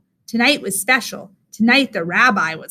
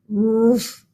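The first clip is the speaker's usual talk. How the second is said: a mild growled woof. Acted. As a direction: grunt it like a grumpy bear. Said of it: "growled Old Bear".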